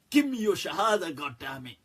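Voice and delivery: hammed-up pushy demand, dropping off at the end; mock aggressive demand. Mimicking a preacher collecting conversions, mock demanding.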